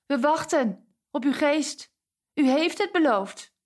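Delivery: hoger, langzaam smekend; smekend roepen naar de hemel. Acted. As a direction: roep het verlangend omhoog. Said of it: "belden samen regelmatig met de hemel". (vrienden roepen naar de hemel, langzaam en hoog)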